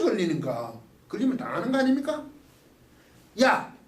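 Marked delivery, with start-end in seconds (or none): 3.4-3.8 mock glaring rebuke, rising to a shout; mock scolding Jesus. Jesus glaring at Peter who denied him, mock angry shout. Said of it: "그 째려보는 게 아니라는 거지".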